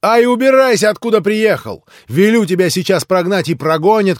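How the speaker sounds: loud furious order; furious shout. Acted. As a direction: drive the suitor out. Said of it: "крикнула в выступлении Грушенька".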